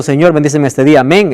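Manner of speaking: perfunctory morning blessing; mechanical prayer. Shown as a demonstration. Preacher shows a morning prayer said by rote, mechanically. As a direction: run through the prayer by habit. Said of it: "no es algo mecánico".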